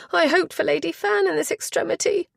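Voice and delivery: a flustered chaperone insisting she be heard; agitated duenna. Acted. Duenna turns to the mother.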